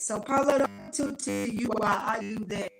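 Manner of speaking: choppy broken-up call audio; breaking up. Real, not acted. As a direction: voice cutting in and out. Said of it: "you sound like Star Trek".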